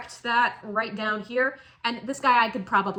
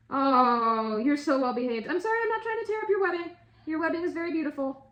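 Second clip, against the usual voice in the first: cooing to pet; 5 semitones higher than usual. Real, not acted. Cooing apology to the spider.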